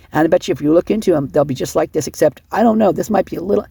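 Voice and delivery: talking fast. Real, not acted. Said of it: "I know I'm talking fast".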